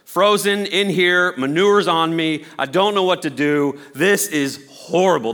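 high, loud, hysterical wailing; hysterical bird. Acted. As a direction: whine in horror at the manure. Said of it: "The bird's like".

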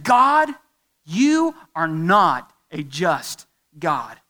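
slow, heavily spaced accusing words; acted charge against God, word by word; accusation. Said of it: "That's an accusation".

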